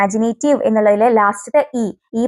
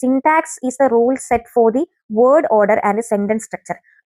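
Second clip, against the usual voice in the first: slow dictation; much slower than usual. Shown as a demonstration. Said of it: "teacher reads a definition".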